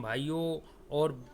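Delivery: light impression of a politician's speech opener; drawn-out address to a crowd, lightly imitated; mock rally-speech salutation; Narendra Modi. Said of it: "Narendra Modi जब dialogue मारते हैं".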